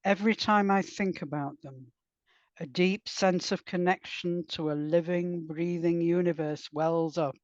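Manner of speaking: measured, even narration with pauses between phrases; composed author's reading, phrase by phrase; literary prose reading. Acted. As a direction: read your lyrical prose aloud to listeners. Reads own prose aloud.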